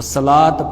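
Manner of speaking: صلاۃ said as "salaat" with t sounded; wrong ending on صلاۃ, t instead of h; mispronounced final t. Shown as a demonstration. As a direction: end صلاۃ on a t. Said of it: "پڑھنا یہ درست نہیں ہے".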